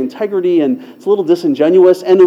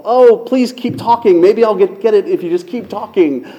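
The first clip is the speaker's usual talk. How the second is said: inner pleading; 4 semitones higher than usual. Retold or imitated. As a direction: beg silently, in mock desperation. Inner plea to keep her talking.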